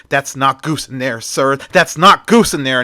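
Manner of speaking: mild anger building on the repeat; angry. Acted. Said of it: "Max angrily says".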